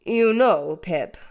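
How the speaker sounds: slow, earnest, a touch solemn. Acted. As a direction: speak gravely to the boy. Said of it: "said Joe solemnly".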